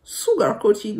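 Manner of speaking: "Sugar Coated" in a French speaker's English accent; self-conscious English accent, rising at the end; self-mocked English accent. Shown as a demonstration. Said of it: "mon super accent anglais".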